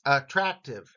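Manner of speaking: "Attractive" with emphasis on the "trac"; stress on second syllable. Shown as a demonstration. Teacher showing learners where the emphasis falls, stressed middle syllable. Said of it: "ra part gets the emphasis".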